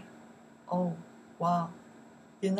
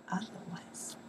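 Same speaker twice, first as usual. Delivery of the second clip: whispered; 12 dB quieter than usual. Shown as a demonstration. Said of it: "whispered gloss".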